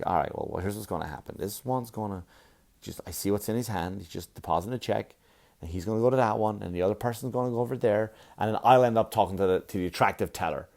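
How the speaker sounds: hushed teller-math scheming while waiting in line; scheming inner voice. Retold or imitated. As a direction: plot it quietly under your breath. Inner plotting in the queue.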